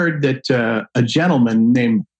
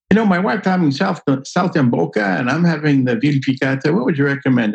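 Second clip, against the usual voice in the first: voicing a diner; 4 semitones higher than usual. Diner voiced ordering dinner.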